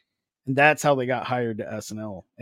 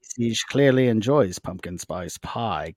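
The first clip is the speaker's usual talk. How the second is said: documentary narrator; 2 semitones lower than usual. Pretend. Mock nature documentary.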